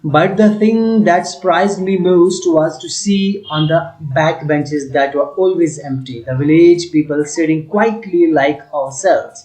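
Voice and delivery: slow, deliberate text reading for the class; slow reading aloud. Acted. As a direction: read each phrase slowly for students. Teacher reads English text aloud. (धीमी आवाज़ में पाठ पढ़ना)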